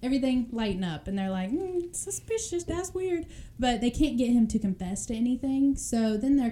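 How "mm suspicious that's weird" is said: mock suspicious cops. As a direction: play the detectives squinting, unconvinced. Cops react to odd story.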